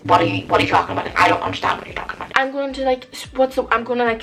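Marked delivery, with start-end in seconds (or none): 0.0-2.3 fast, breathless mock bafflement; mock confused. To someone mentioning covid, fast mock-baffled retort. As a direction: play dumb at anyone saying covid. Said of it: "I'm gonna say".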